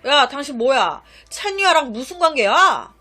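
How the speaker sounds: loud, hot-tempered demand down the phone; angry outburst. Retold or imitated. Stranger phones the husband and angrily demands who he is. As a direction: snap at the stranger on the line. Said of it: "화를 막 내면서".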